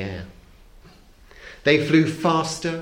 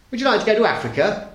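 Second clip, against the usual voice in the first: shouted question; 8 semitones higher, faster than usual. A narrator's reading. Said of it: "he shouted".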